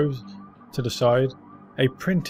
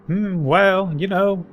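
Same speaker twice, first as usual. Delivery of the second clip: put-on higher, louder gossipy old man; 5 semitones higher, 3 dB louder than usual. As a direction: share a rumour like a street veteran. Old man tells what he saw.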